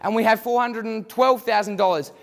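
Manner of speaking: brisk auctioneer patter working the room; auctioneer call. Acted. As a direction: drive the bidding like a real auctioneer. Mock auction, student calling bids.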